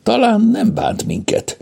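high, hesitant voice; tentative hope, pitched well up; unsure, reaching for reassurance; uncertain. A narrator's reading. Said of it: "tette hozzá bizonytalanul".

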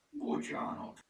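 high, sheepish excuse; apologetic. A narrator's reading. Lupi apologises for tying up furmány, apologetic. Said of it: "mentegetőzött Lupi".

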